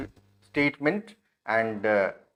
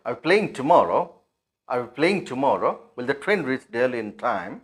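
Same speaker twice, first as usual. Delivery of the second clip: slow model questions, pitch lifted towards "time"; rising tone. Shown as a demonstration. Teacher repeats practice questions for students, slow rising tone ending on "time". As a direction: carefully raise the end on "time". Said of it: "rising tone".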